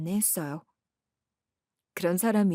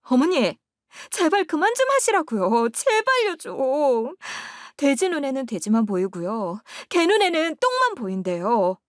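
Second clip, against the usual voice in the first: higher, louder exasperated yell; 6 semitones higher, 4 dB louder than usual. Acted. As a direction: snap at the mother-in-law, fed up. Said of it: "저는 소리를 꽥 질렀어요". (참다못해 소리치듯)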